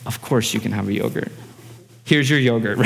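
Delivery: lightly acted fatherly yes, easy and low; gentle granting. Dad answering daughter's polite request, gently agreeable.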